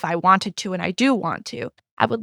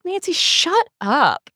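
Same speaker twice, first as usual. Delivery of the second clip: high, slow, drawn-out dismissal; exasperated put-down; 9 semitones higher, slower than usual. Retold or imitated. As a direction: tell her off with weary scorn. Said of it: "I just was like".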